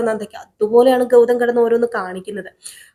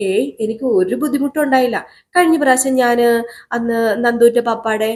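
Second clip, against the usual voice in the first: lightly voiced little girl; 3 semitones higher than usual. Little Gauri voiced telling mother.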